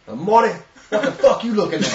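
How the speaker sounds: put-on gruff old man. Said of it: "looked at me and said".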